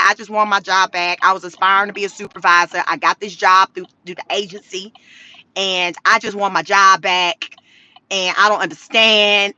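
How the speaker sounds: half-hearted weepy voice; imitating crying. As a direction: mimic a sad, pleading worker. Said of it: "She crying".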